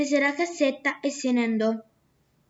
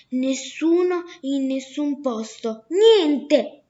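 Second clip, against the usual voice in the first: slow, insistent nessuno in nessun posto, then a loud, falling shout of niente; the merchant angrily repeats the name to his neighbours; exasperated outburst; 4 dB louder, slower than usual. Acted.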